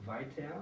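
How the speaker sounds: "weiter" ending in an open a sound; final R as A. Shown as a demonstration. Teacher giving class an example, final R as A. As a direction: end "weiter" as vai-ta, no R. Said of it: "más como una A".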